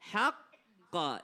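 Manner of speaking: HAQQO split by a held q; firm closure on q, then release HAQQO; held double q. Shown as a demonstration. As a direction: catch and hold the Q in HAQQO. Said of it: "ditahan dulu".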